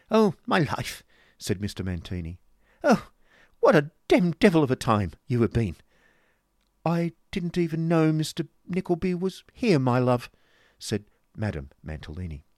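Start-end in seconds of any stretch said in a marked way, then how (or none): 0.1-1.0 high, loud, gushing fop; theatrical doting husband, pitched way up; affected husband. Acted. Husband's affected dramatic greeting. 2.8-5.8 high, loud, gushing fop; theatrical doting husband, pitched way up; affected husband. Acted. Affected husband's effusive complaint. 6.8-10.3 high, louder lady's voice; grand madame addressing her darling, pitched up; affected wife. Acted. Wife answers her husband.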